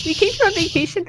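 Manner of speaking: scared. Acted. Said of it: "I was so scared".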